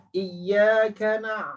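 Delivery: yaumi with lips pushed forward on the w; rounded lips on waw. Shown as a demonstration. Teacher modelling yaumi with rounded lips. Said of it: "dia macam ada ekor sedikit".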